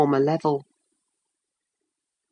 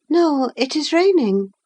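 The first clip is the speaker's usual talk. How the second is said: put-on higher, lightly girlish voice; young woman voice; 10 semitones higher than usual. A narrator's reading. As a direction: voice Catherine a touch higher. Catherine voiced high.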